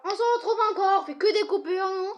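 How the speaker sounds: amused at all the cuts; laughing. Real, not acted. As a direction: laugh while you say it. Kid laughing at the video cuts.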